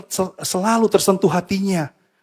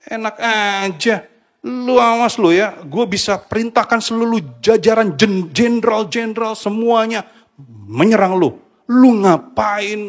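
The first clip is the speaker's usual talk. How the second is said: a louder, higher, scornful challenge from an offended king; defiant king's retort; 3 semitones higher, 3 dB louder, slower than usual. Retold or imitated. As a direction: snap back like a king who won't be corrected. David imagined scolding prophet Nathan.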